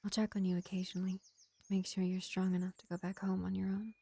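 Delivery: lightly voiced vampire healer, projected above the chatty voice; gentle vampire medic. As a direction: play a measured vampire reassuring a wounded elf, with long pauses. Vampire takes leave of the elf.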